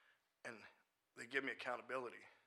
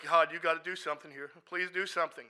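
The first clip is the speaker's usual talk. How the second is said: loud, raised-pitch prayer; desperate plea; 5 semitones higher, 11 dB louder than usual. Retold or imitated. Praying mid-argument for a friend, desperate loud plea. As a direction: beg loudly for help. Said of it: "trying to scream at him and talk to God".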